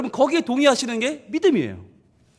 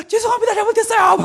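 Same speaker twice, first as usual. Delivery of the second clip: high, loud panicked plea; a frightened child yelling sorry to a bully; begging kid; 10 semitones higher, 3 dB louder than usual. Acted. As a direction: squeal an apology like a scared kid.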